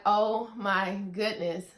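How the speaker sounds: slow, loud, emphatic disbelief; retold breathless amazement. Vlogger reliving the pregnancy news, slow and overwhelmed. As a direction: land each word heavily, amazed. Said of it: "you guys, I cannot breathe".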